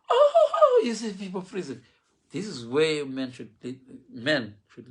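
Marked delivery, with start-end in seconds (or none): 0.1-1.8 high squeal breaking into laughter; laughing. Real, not acted. Preacher cracking up at his own story, laughing high. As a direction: laugh through it, almost crying.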